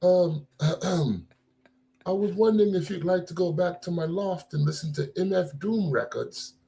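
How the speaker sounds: put-on lightly done British London accent, casual hip hop swagger; a hint of a British hip hop guy chatting someone up; British hip hop head voice. Host does a mock British hip hop head voice for cohost, lightly. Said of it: "let me do, like, a British hip hop head voice".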